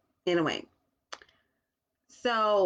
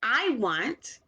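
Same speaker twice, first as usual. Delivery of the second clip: put-on child voice; 7 semitones higher, 4 dB louder, slower than usual. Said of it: "She says".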